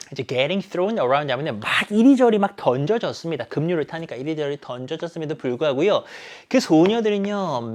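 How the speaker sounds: ordinary delivery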